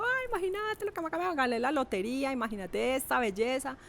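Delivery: high, giddy retold cry of joy; excited shriek. Calling her brother-in-law, overjoyed with news. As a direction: squeal the news like a lottery win.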